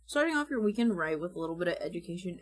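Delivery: quick, smooth host delivery; fast confident read. Shown as a demonstration. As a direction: rattle it off like a host. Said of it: "we will start with some scripting".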